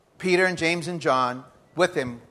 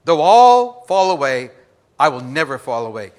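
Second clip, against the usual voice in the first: mock boast; 11 dB louder than usual. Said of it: "you just gotta be careful what you say".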